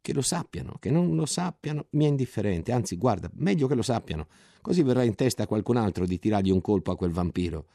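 più acuto, sdegno sprezzante; sdegnato. Acted. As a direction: sputa il disprezzo per il generale. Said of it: "Ottolenghi parlava sdegnato". (Ottolenghi sdegnato al narratore, voce più acuta e sprezzante)

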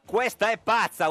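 imitated yell. Host quotes the deputy's outburst at the Chamber president, mock yell. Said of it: "urlò".

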